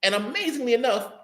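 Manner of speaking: high, slow, pointed sarcasm; sarcastic jab. Real, not acted. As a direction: drag it out to rub it in. Mocking Saul's useless gear.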